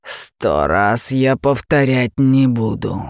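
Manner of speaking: slow, heavy dragon roar. Acted. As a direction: lose patience with a bellow. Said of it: "взревел дракон".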